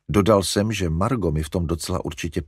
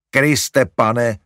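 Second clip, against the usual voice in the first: louder, exasperated groan; Larry moaning at more dogs; 4 semitones higher, 7 dB louder than usual. A narrator's reading. Larry to mother about more dogs, groaning. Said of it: "zaupěl Larry".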